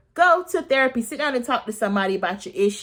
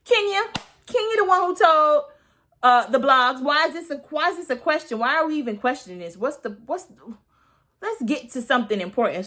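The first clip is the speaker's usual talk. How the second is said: higher, exasperated rant voice; exasperated quote; 5 semitones higher than usual. Retold or imitated. Vlogger voicing anyone with a brain, exasperated. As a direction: huff it out like the obvious answer. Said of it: "anybody with a brain would say".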